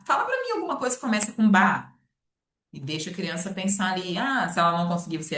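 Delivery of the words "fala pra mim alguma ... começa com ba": teacher prompt. Retold or imitated. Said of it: "você pode pedir pra criança falar".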